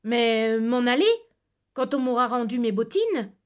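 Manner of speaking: guileless and unhurried; with simplicity. Acted. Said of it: "Je répondis avec simplicité".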